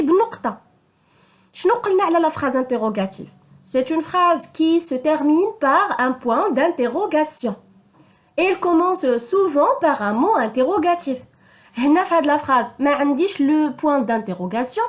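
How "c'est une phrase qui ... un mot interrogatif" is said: slow dictation. Shown as a demonstration. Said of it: "restating rule slowly".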